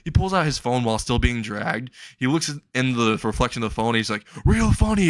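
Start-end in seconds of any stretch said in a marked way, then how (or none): 4.5-5.1 mock annoyance. All Might snaps back at prank.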